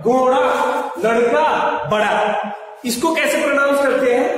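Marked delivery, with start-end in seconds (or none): 0.0-2.5 घोड़ा with the tongue flicked back to front for ड़; लड़का and बड़ा with a clear retroflex flap; correct ड़ sound. Shown as a demonstration. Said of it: "इसको हम लोग pronounce करते हैं". (सही उच्चारण: ड़ साफ़ बोलें)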